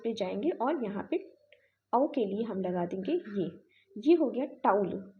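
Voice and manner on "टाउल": "टाउल" run together as one syllable, no we glide; one-syllable towel. Shown as a demonstration. Teacher showing students what the strokes spell, "टाउल" as one syllable. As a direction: say "टाउल" with the diphthong straight into the l. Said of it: "टॉवेल नहीं हुआ, ये हुआ टाउल".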